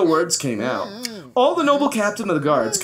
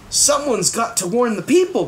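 cried; 5 semitones higher than usual. Acted. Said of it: "cried Bartholomew".

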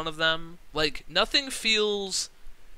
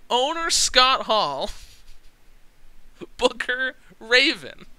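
higher and louder, slow, with a breathy laugh between; repeated hype; 6 semitones higher, 3 dB louder than usual. Real, not acted. Gamer repeating the names for the audience, laughing with hype. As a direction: say it again, relishing it. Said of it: "Can I say that one more time?".

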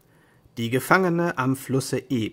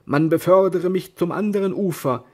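weary knight; 4 dB louder than usual. Acted. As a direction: speak like a defeated but proud knight.

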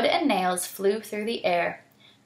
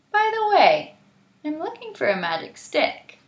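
Hyena voice; 6 semitones higher, 4 dB louder than usual. Acted.

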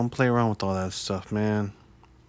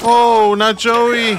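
dismayed cry; 12 semitones higher, 11 dB louder, much slower than usual. Real, not acted. Reactor dismayed at Joey's fate.

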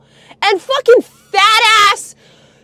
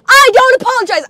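raised, higher-pitched defiance; defiant outburst; 5 semitones higher, 3 dB louder, faster than usual. Real, not acted. Taking back an apology to grandpa, defiant outburst. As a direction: refuse angrily, voice jumping up.

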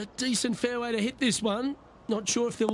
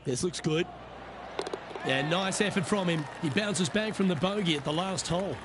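golf commentator. Acted.

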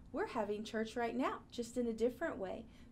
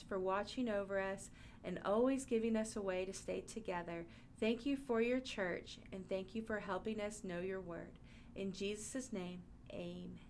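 put-on children's prayer; 2 semitones lower than usual.

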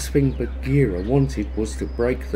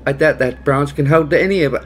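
impatient panther; 7 dB louder, faster than usual. Acted. Bagheera warns, fast and loud.

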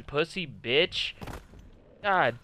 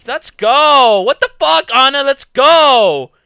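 loud, raised-pitch triumphant yells; fired-up gamer cheer; hyped celebration; 3 semitones higher, 9 dB louder, slower than usual. Real, not acted. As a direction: shout it out after landing the kill. Celebrating a kill.

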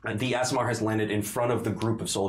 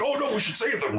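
lightly voiced worried friends, higher; a hint of higher-pitched mock alarm; 11 semitones higher, faster than usual. Friends deciding to save them, mild mock alarm. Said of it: "your friends were like".

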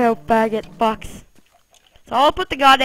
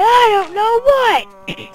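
slow, high, louder wail of despair; whiny cry; 11 semitones higher, 7 dB louder, much slower than usual. Real, not acted. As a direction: wail it out, near tears over the game. Venting about game bug.

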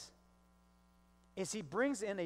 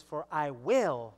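"will" drawn out and louder; stress on will; 3 semitones lower, 5 dB louder, slower than usual. Shown as a demonstration. Preacher quoting God's promise, firm stress on "will". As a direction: lean hard and slowly on "will". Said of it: "not might".

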